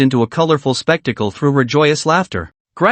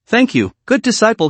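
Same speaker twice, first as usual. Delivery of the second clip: sultry, higher voice; 7 semitones higher than usual. Acted. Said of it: "Her sultry voice was like a gentle breeze".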